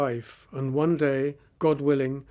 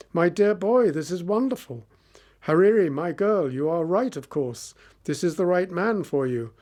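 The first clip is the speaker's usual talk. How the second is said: delighted father; 3 semitones higher than usual. Acted. Father overjoyed at prince.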